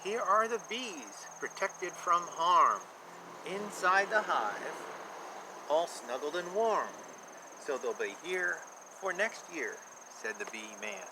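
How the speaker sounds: lilting rhymed picture-book read; sing-song storybook reading for a child; reading to children. A narrator's reading. Reads rhyming picture book aloud.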